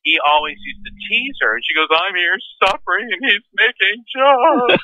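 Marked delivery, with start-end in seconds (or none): 1.9-4.8 high wail climbing and stretching at the end; mock crying. Widow complaining about her joking husband, mock wailing. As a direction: imitate a suffering widow, higher and more drawn out as it goes. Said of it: "she's crying through this crumpled tissue".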